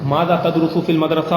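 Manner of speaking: slow, word by word for writing; slow dictation of the sentence. Shown as a demonstration. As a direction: dictate it slowly so they can write. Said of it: "ایک اور بھی فعل لکھ لیں".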